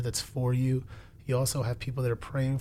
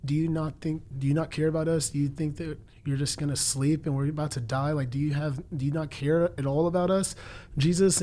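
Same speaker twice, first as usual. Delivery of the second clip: mild retold shouting; 3 semitones higher than usual. Frightened disciples waking Jesus in the storm, mildly shouted retelling. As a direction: plead in mock alarm, building to an exclaimed last word. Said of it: "they wake him up and shouting".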